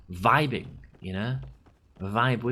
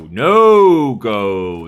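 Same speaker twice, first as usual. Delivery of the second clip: much louder mock-outraged no-go; emphatic shout; 12 dB louder than usual. Real, not acted. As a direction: blurt it out loud. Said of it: "that is a no-go".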